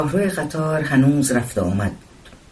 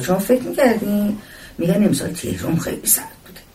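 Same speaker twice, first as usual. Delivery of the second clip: lightly voiced talkative woman, lively swooping pitch; chatty woman passenger; 3 semitones higher than usual. Woman chatting to a stranger on the train, lightly voiced and chatty.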